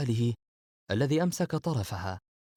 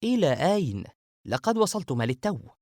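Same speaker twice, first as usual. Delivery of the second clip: loud, high surprised protest; taken-aback host protesting; astonished; 7 semitones higher, 4 dB louder than usual. A narrator's reading. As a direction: burst out in surprise, much higher and louder. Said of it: "وقال باندهاش".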